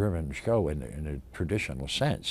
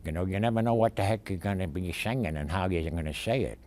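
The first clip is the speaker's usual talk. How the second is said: lightly voiced gangster; quick patter in a gangster dialect; 2 semitones higher than usual. Shown as a demonstration. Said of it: "or gangster".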